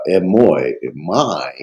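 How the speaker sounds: "emoi, my" drawn out slowly with weight on each word. Shown as a demonstration. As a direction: lean slowly on "emoi", then "my". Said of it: "it makes it more emphatic".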